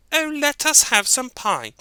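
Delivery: very high eager kitten voice; excited high kittens. Acted. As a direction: squeak with joy to mother. Kittens beg.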